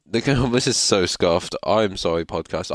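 drowsy, dragging delivery; sleepy and a bit slow; half asleep. Real, not acted. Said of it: "I'm just, like, half asleep".

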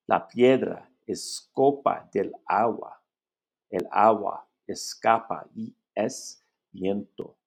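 slow, measured poetry recital; poem reading. Acted. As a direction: read it like a poem, with pauses. Reads a poem aloud.

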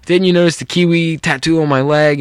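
mildly indignant imitated rant; retold rant. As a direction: act out a friend's mock rant. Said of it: "he went into this big rant".

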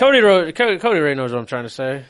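speech thick around a tongue ring. Real, not acted. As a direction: talk past the piercing. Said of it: "talk with your tongue ring in".

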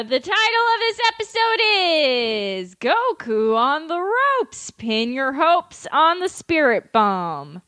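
drawn-out mock-grand announcer; title announcement. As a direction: proclaim it like an episode title card.

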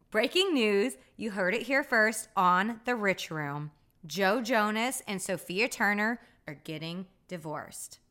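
emphatic breaking-news announcement; playful news-anchor delivery; mock newscaster. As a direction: announce it like a big scoop.

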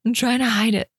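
hiccuping between words; with hiccups. Real, not acted. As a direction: talk through hiccups. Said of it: "excuse my hiccups".

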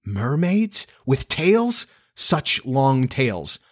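put-on high, amazed girl's questioning; excited cry. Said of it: "cried Wendy".

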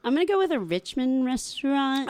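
hushed conspiratorial whisper. Real, not acted. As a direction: whisper it like a secret plan. Announces her pick.

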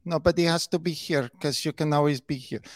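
lightly mocked Spanish-accented English; fake Spanish accent. Commentator parroting the wife's complaint to the press, fake Spanish accent. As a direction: mimic a put-on Spanish accent. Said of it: "having a fake accent here".

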